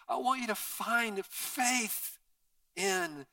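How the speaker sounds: rising, pleading prayer. Acted. Pastor praying for his church, rising and pleading. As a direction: build the plea as you pray.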